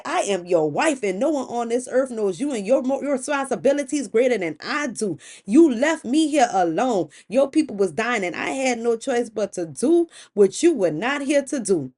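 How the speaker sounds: wronged wife standing her ground; heated, insistent self-defense; defiant retort. Acted. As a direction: fire back with emphatic, accusing stresses. Acted quarrel, wife answers back.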